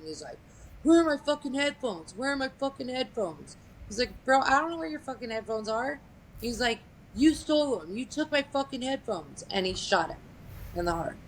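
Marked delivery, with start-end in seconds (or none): 0.8-3.6 higher-pitched mock outburst; acted-out demand, high but not shouted; retold angry demand. Retold armed confrontation over headphones. 4.2-6.0 higher-pitched protest, acted out; mild mock exasperation, pitch up; retold exasperated denial. Retold victim answers the accuser. 7.1-9.4 high-pitched mock outburst; acted-out accusation, high but not shouted; retold angry accusation. Retold accusation before the shooting.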